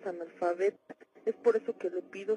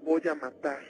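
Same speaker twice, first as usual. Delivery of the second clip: demon voice; 6 dB louder than usual. Acted. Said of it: "hablaba con voz de hombre".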